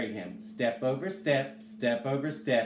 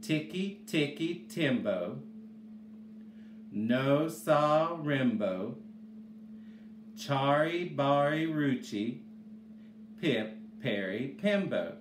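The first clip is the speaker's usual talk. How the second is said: slow demo. Shown as a demonstration. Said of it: "call her the most wonderful".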